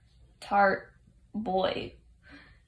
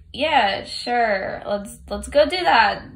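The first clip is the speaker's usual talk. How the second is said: enthusiastic; 7 dB louder, slower than usual. Retold or imitated. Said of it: "a lot more enthusiastic about it".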